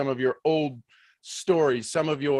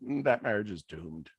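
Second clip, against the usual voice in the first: low, soft, dry verdict; doctor quietly judging the couple, low and dry; Wayne Dyer's verdict; 7 semitones lower, 8 dB quieter than usual. Retold or imitated. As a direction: murmur it like a knowing sage. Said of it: "and he said".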